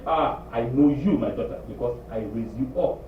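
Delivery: gently wise mother; lightly voiced mother; knowing mother. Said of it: "Your mama say".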